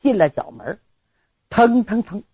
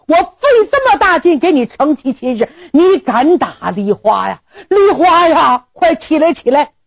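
scolding shout; 6 semitones higher than usual. Acted. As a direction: tell him off, then call her up. General scolds groom, helps bride.

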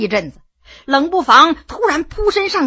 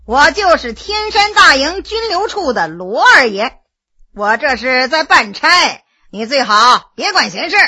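careless. Acted. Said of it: "满不在乎的大声说".

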